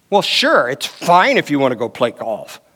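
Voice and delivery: a grudging "sure" that really means no; half-hearted permission with a hidden no; mock mixed message. Wife letting husband go golfing, mock grudging permission. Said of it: "That's a kind of a mixed message".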